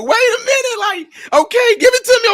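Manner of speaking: very high, flustered backpedalling; hammed-up scrambling to please; panicked giving in. Husband panics, gives in.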